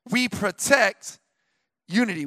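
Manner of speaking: slow emphasis. Acted. Slow emphatic sermon line.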